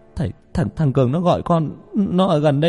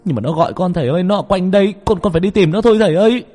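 high, frantic yelling plea; desperate wail, building louder and faster; crazed howl; 10 semitones higher, 5 dB louder, faster than usual. Acted. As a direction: scream at the teacher as if out of your mind. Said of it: "gào lên như thằng mất trí".

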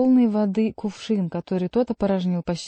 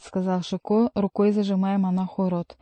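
ordinary delivery

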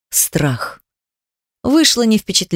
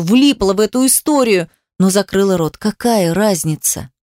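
usual speaking voice

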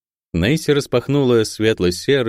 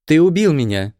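higher and loud, stress on убил; hateful accusation; 8 semitones higher, 3 dB louder than usual. A narrator's reading. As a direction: spit out убил with hatred. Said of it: "ненависть холодным ручьём".

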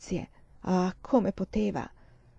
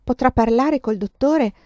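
firm, louder, pressing voice; a nun pushing her point hard; insistent nun; 6 dB louder than usual. Acted. Nun insisting to the mother, louder and firm. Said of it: "La suora insisteva".

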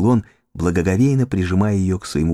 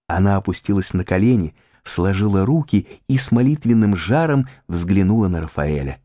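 ordinary delivery, nothing marked

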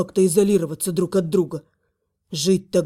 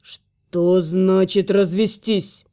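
hissing reptile growl; much slower than usual. Acted. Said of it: "прорычал дракон".

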